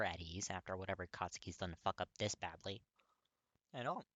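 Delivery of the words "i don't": whispered, croaking start; awful voice. Acted. Katsuki apologizing to Kirishima, voice barely working. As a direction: rasp it out, voice failing. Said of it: "his voice sounds awful".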